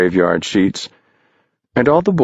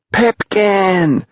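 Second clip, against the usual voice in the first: much higher, louder shout of the name; 12 semitones higher, 3 dB louder than usual. Acted. Boys shouting to Pipkin from the cliff, high and loud. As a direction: call him from the cliff edge. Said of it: "everyone shouted".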